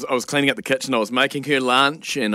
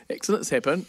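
"Accidents happen." repeated softer, trailing off; 2 semitones higher, 6 dB quieter than usual. Retold or imitated. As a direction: let the second "Accidents happen." fall quiet. Partner repeats reassurance.

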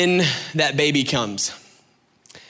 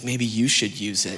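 laughing retort; 5 semitones lower, 4 dB quieter than usual. Retold or imitated. Wife tossing task back.

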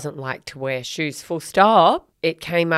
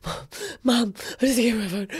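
daughter's voice; 5 semitones higher, 4 dB quieter than usual. Retold or imitated. Mother voices bleeding daughter.

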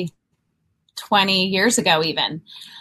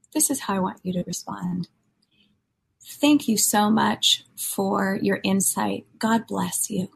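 calm mentor; 5 dB quieter than usual. Retold or imitated. Mentor voiced giving calm model reply.

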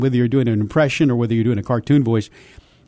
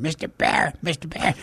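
softly sketched beginner's duck imitation; trying out a duck voice; 7 dB quieter than usual. Boy showing his mom a new voice, soft tentative imitation. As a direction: hold back, a quiet squeezed attempt. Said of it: "I did it for my mom".

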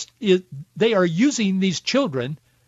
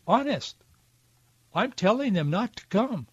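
mildly mocking, higher-pitched little voice; squeaky little voice; 3 semitones higher, 4 dB quieter than usual. President reassuring the American people, in a mock squeaky little voice. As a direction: imitate him with a light, slightly squeaky voice. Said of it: "in his squeaky little voice".

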